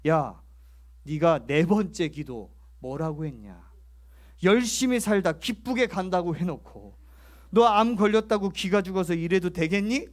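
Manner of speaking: loud, stern rebuke, half acted; stern scolding. God rebuking the discouraged elder, a retold stern scolding. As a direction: scold him like a father catching a slacker. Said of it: "딱 야단을 치더래요".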